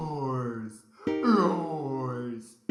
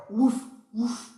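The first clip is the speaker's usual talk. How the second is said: dog barking; 7 semitones higher, 4 dB louder than usual. Pretend. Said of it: "Dogs say".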